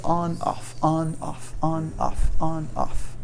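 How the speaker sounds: throat switched on, off, on, off; voicing on and off. Shown as a demonstration. Teacher demonstrating voice switching on and off.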